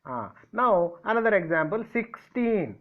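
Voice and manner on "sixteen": "sixteen" with the last syllable pitched higher; stress on TEEN. Shown as a demonstration. Teacher giving another stress example, "sixteen" stressed on the end. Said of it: "Where did I keep the stress word?".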